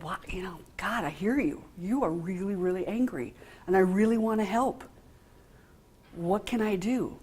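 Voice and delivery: soft and steady, hearing him out; calm the angry boy gently; calm, quiet reassurance. Retold or imitated. Counsellor soothing an angry teenager, calm and quiet. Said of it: "And I said".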